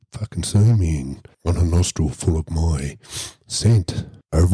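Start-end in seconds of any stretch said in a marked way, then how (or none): 4.3-4.5 imitated panda growl; rolled, rumbling animal noise; crazy animal sound. Storyteller imitating the excited panda's noise, crazy growling. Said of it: "crazy fucking sound".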